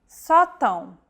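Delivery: "sótão" stressed on an open "só", nasal "tão" after. Shown as a demonstration. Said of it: "The stressed vowel is marked by an acute".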